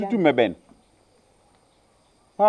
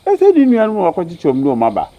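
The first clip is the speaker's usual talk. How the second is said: loud questioning; 7 dB louder than usual. Acted. Incredulous questioning about relatives coming.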